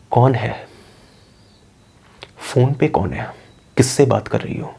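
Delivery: soft, halting ghostly questions; quietly menacing voice from behind, with long pauses; hushed creepy interrogation. Acted. Possessed son's voice from behind her.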